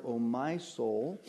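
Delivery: "my" stretched out, phrase rising at the end; stress on MY. Shown as a demonstration. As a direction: linger on "my" to make it personal. Stressing personal words of psalm.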